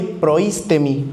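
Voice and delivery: Proístemi said slowly, accent on the first í; slow down and lean on the í in Proístemi; stress on the I. Shown as a demonstration. Preacher showing how the word sounds, slow stress on the í in Proístemi. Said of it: "con acento en la I".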